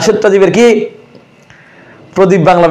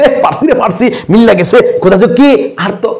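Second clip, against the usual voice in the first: lightly acted student thinking they know it; mock-confident pupil giving an answer; imitated exam candidate; 2 semitones higher than usual. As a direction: play a pleased test-taker, lightly mocking. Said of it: "অনেকে উত্তর করছে".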